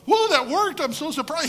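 hammed-up amazed cry, very high and loud; a joking what-he-didn't-say gasp; mock surprise. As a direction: play it as overblown disbelief. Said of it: "David wasn't going".

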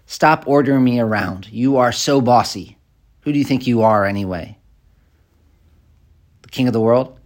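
mock a resentful comeback, moderately heated; unwholesome bossy retort. Shown as a demonstration. Preacher demonstrating unwholesome speech to a spouse, mildly angry. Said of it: "Unwholesome speech might be something like this".

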